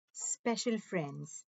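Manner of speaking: Special friends drawn out slowly. Shown as a demonstration. Teacher slowly naming letter pairs to children. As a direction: stretch it out for the kids. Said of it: "phonics teaching phrase".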